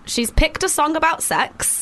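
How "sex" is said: whispered. Real, not acted. Coy about the song topic.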